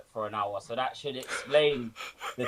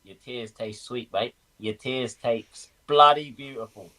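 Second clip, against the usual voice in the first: gloating. Real, not acted. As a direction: gloat over the rival's tears. Gloating at rival managers.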